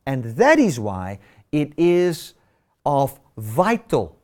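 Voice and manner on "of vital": vital slowed and leaned on; stress on vital. Shown as a demonstration. Preacher stressing vital to congregation, slow and weighty. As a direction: stretch out the word vital for weight. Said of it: "and I stress the word vital".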